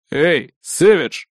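slow gruff boss voice; gruff boss calling. Acted. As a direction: call out to him like a stern chief. Boss calls out.

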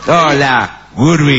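1930s cartoon. Shown as a demonstration. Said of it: "Ahí va".

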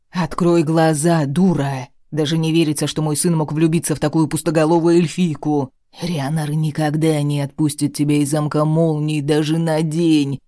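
booming, furious king; angry roar. Acted. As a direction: roar it at her in rage. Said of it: "голос короля превращается в гневный рёв". (гневный рёв)

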